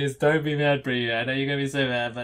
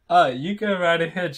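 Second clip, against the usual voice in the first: high, loud cheery go-ahead; perky, pitched-up permission; smiling; 4 semitones higher, 7 dB louder than usual. A narrator's reading. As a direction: wave them on gladly with a smile. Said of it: "she says, smiling back at me".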